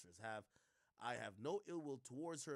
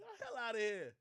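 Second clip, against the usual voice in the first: high, loud disbelieving shout; exasperated shout; 11 semitones higher, 8 dB louder than usual. Real, not acted. Streamer yelling at Van's apology, exasperated shout. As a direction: blow up at the idea in disbelief.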